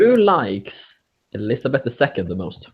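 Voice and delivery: rushed, words run together; quick mumbled question. Real, not acted. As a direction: fire it off quickly. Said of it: "A little bit what?".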